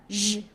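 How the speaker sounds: 日 as a buzzing French J; standard R sound. Shown as a demonstration. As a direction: say 日 like the middle of Asia. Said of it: "as in Asia, or measure".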